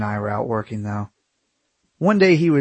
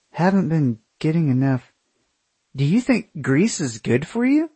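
high, disbelieving questions; incredulous; 5 semitones higher than usual. Acted. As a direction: ask in total disbelief. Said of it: "My jaw dropped".

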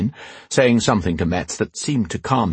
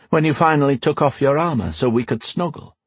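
higher-pitched, lightly teasing queen; 6 semitones higher than usual. Acted. Queen recalling their first night, teasing. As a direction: ask it coyly in a lifted voice.

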